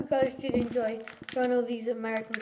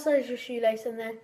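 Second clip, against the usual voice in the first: talking around chewy candy; chewing while talking. Real, not acted. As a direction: mouth partly full. Seen 1: Feeds lace into mouth, hand at mouth chewing until 0.7s.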